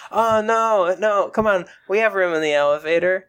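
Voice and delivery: high, eager overly polite voice; mock polite guy.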